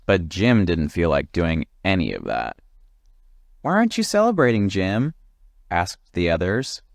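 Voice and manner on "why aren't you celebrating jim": high, fast chorus of questions; eager friends. Acted. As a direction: rush the question out. Friends ask quickly.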